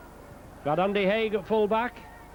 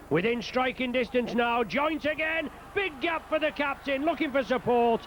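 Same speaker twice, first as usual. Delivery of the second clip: higher-pitched live call as the break opens up; rising excitement; 3 semitones higher than usual. Real, not acted. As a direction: build excitement with the attack. Commentary on a break upfield.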